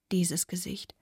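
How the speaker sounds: whispered, rising on dieses. Acted. Girl staring at Anne's face, rising whisper. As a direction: breathe the words, lifting on dieses.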